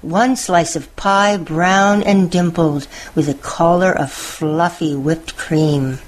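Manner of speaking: put-on lively read-aloud for children, savouring each list; storybook narration. A narrator's reading. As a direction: tell it like a bedtime picture book.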